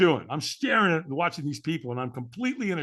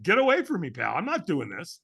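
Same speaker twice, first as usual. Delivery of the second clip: dismissive brush-off. Retold or imitated. Firewalker fending off the stranger, dismissive brush-off. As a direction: wave off a pushy stranger. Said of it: "with the tonality".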